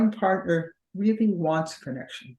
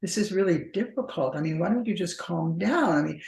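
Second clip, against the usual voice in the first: patronizing. Retold or imitated. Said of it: "it becomes so patronizing".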